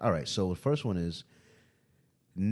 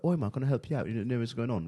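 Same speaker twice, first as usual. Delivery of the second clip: higher-pitched put-on British accent; 5 semitones higher than usual. Coworker fooling a Walmart customer, British accent. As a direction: play the Londoner helping a customer. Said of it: "I would use my British accent".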